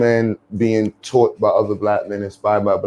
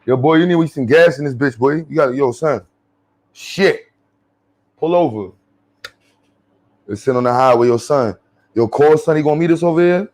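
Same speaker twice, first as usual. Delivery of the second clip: put-on New York accent; 3 semitones higher than usual. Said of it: "only New Yorkers talk like that".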